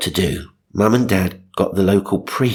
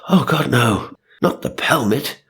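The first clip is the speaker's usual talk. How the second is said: higher, mock-panicked mum; spluttering mum; 5 semitones higher than usual. Reader voices mum upset about the pelmet, mock panic. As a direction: play mum aghast at losing the pelmet. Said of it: "Mum spluttered".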